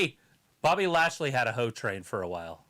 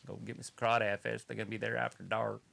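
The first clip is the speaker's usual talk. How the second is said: put-on Louisiana bayou talk; mock Louisiana accent. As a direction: imitate a hard-to-follow Louisiana local. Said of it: "That's called Louisiana".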